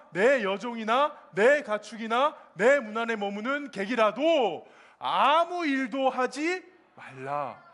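slow, measured unison reading; scripture read aloud. Shown as a demonstration. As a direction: read it slowly like a verse for everyone to follow. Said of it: "우리 다 함께 읽어보겠습니다".

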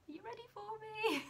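high, breathless whisper; whispered question. Retold or imitated. Student peeking back into the mentor's room, whispered high and timid. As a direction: tiptoe back in, barely voicing it. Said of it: "I was like".

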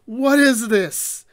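slow, loud, high disbelief; reacting to the comic's ending in disbelief; baffled what is this. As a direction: drag it out in stunned confusion. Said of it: "And I'm like".

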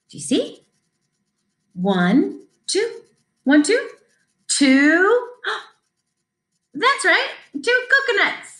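lively, sing-song picture book reading; reading to children. Acted. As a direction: read it bright and bouncy for little kids.

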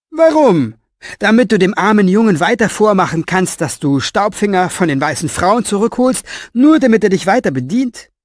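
put-on high, loud indignant old man; bristling with scorn, up in pitch; angry old author. A narrator's reading. Old author berating Orpheus, high and loud.

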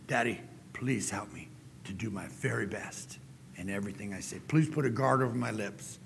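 a pastor modeling a heartfelt prayer. Acted. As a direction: pray humbly to God as Daddy. Speaker prays aloud.

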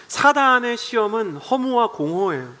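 ordinary delivery

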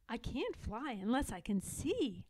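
reluctant. Acted. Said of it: "I said reluctantly".

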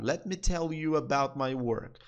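slow, careful repeat; slow demo. Shown as a demonstration. Teacher repeating the example for students, slow. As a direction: say it again slowly. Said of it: "Deixa eu falar sobre o meu trabalho".

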